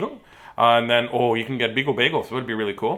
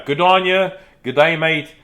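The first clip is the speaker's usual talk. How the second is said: put-on stock Australian accent; 3 semitones higher, 4 dB louder than usual. Showing an Aussie viewer all he knows, mock-Australian accent. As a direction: toss off a hammy Australian greeting. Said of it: "That's all I know for Australia".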